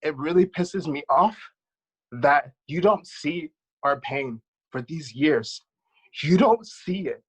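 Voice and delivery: real upset, rising in pitch and force; getting emotional. Real, not acted. Speaker pleading with people who don't see their pain, emotional. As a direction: let the hurt build with each phrase. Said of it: "I'm getting emotional".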